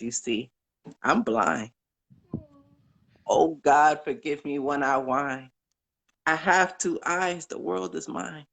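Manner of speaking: a caller reciting an inspirational poem; poem recital. Acted. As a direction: recite it like a heartfelt blessing.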